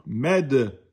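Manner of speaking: med with a bounced, released d; qalqala. Shown as a demonstration. Teacher showing qalqala on soukoun, bounced med. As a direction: release the d of "med" with a little echo. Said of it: "il était qalqala".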